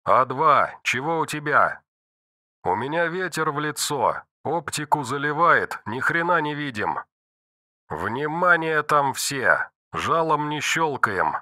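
radio voice. Acted. Radio chatter between fighters.

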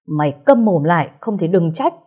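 angry shout. Acted. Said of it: "Bố cô quát". (người bố quát dọa con gái, giọng hơi to)

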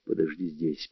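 low, very soft murmur; whispered. A narrator's reading. Steve tells Netta to stay put, whispering. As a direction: hush right down, pitched low. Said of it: "прошептал я".

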